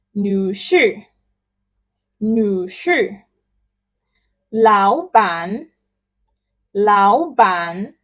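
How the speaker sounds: each title said twice, slowly and clearly; title drill. Shown as a demonstration. Teacher drilling titles for repetition. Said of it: "Let's go again".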